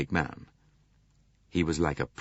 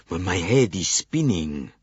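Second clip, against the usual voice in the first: groaned; 4 dB louder than usual. Acted. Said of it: "groaned Monsieur Bouc".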